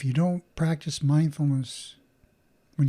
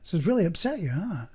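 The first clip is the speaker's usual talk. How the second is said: empathetic; 4 dB quieter than usual. Shown as a demonstration. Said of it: "noticing they're upset and going".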